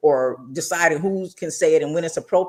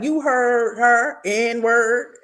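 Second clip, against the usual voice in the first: mock menacing threat; 7 semitones higher, much slower than usual. Quoting sweetie's threat.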